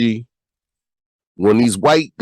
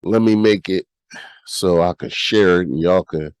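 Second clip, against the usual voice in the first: stuffy nose from a cold; talking through a blocked nose; nasal voice. Real, not acted. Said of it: "my nasal ass voice right now".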